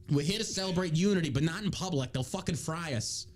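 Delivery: put-on New York accent, warning the team; New York man. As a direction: caution them like an exasperated New Yorker. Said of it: "I don't know why I'm a New York man".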